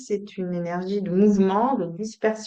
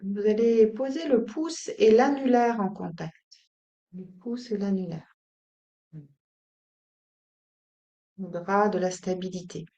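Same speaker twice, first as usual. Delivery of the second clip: calm, unhurried instructions with long pauses; soothing yoga-teacher guidance; guided meditation. Acted. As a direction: settle them gently into stillness.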